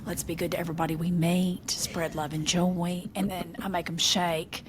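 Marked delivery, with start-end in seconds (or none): 0.1-3.1 tender affirmations. Retold or imitated. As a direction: soothe them like a loving mama. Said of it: "they'll sit and I'm like".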